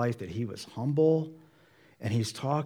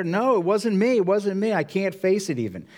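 higher, louder protest of innocence; acted flustered denial; 8 semitones higher, 5 dB louder than usual. Peter confronted at the house, acted flustered denial. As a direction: deny it urgently, pitched up.

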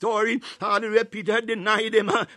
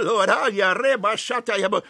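speaking in tongues. Acted. Burst of tongues in prayer.

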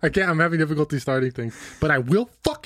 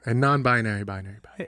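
fading echo; 4 semitones lower than usual. Pretend. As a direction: echo trailing off into silence. Echoing announcer bit.

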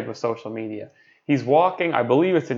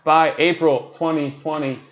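staccato. Retold or imitated. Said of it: "one word at a time".

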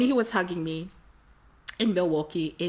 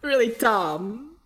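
really dumb drawn out slowly; slow emphasis; 5 semitones higher, 3 dB louder, much slower than usual. Real, not acted. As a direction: stretch out really dumb to stress it. Confessing a silly mistake.

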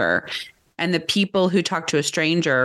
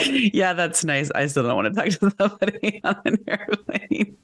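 mock polite brush-off. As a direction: brush it off with fake niceness. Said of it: "I'm like".

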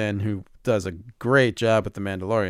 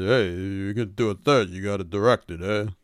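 Stallone impression. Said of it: "or is that an impression?".

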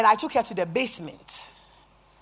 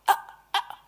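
frightened gasps; 3 dB louder than usual. Retold or imitated. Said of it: "her eyes became frightened".

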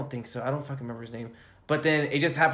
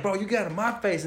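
mock angry comeback; 7 semitones higher than usual. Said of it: "He's like".

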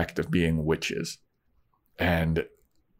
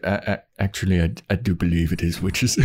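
hesitant Giles. Retold or imitated. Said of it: "And Giles is like".

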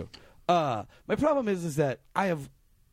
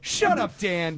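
mock outrage; 3 semitones higher, much slower than usual. Real, not acted. Mock attack on Dan.

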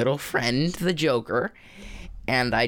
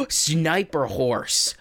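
slow drawn-out tagline; much slower than usual. Acted.

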